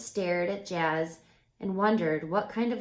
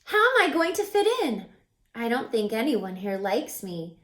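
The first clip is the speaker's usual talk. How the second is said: sighing. Acted. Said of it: "she sighed".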